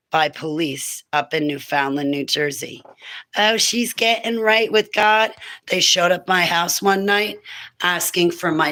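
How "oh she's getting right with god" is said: lightly put-on jokester voice, higher; mocking jokester. Police officer mocking her for getting right with God, jokester voice. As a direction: imitate a cop's jeering, jokey tone. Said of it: "in a funny jokester voice".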